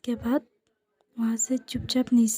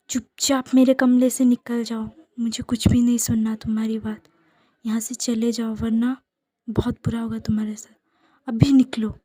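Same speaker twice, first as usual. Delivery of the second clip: angry. Acted. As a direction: drive him from the room in anger. Angry husband throws him out.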